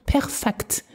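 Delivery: "Perfekt." whispered, high and breathless. Shown as a demonstration. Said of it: "pronounce it perfekt".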